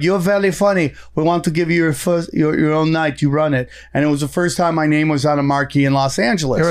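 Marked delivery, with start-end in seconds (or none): 0.0-3.7 put-on light French accent on the couple's words; lightly voiced French club owner. French-accented offer, to the podcast host. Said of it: "That was a good French accent".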